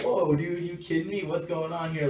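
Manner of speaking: standoffish. Retold or imitated.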